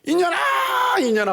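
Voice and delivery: high wailing cry, 이년아 drawn out and sobbed; crying little girl. Retold or imitated. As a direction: wail it like a little girl crying all day. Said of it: "얘는 울 때 이렇게 울어요". (어린 여자아이처럼 높게 울부짖으며)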